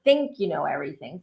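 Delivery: emphasize "think", then run through the rest; stress on THINK. Shown as a demonstration. Host clarifying her point to viewers, stressing "think". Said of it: "I'm emphasizing the word think".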